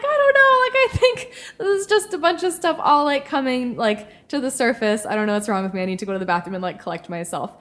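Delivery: mock-sobbing explanation, trailing off; retold tears in the bar; tearful retelling. Retelling own tearful reply.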